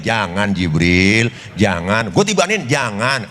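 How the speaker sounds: low, slow pleading no; gentle refusal. Acted. The Prophet restrains angry Jibril, low and slow. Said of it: "Ini kalau bahasa kita begitu".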